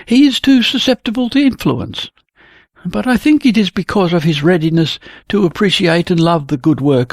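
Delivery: a hint of a young painter explaining; Jenny voiced. Painter Jenny tells Helg about the view, lightly voiced. Jenny praises Helg's father.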